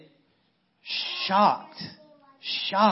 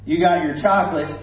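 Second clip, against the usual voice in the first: commercial line; 4 dB louder than usual. Retold or imitated. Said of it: "this phrase became huge".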